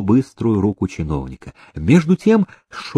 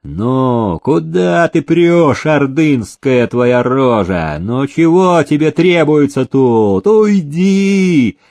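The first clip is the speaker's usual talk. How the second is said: angry soldier; 3 semitones higher, slower than usual. Acted. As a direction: bark them away from the door. Soldier yelling at petitioners.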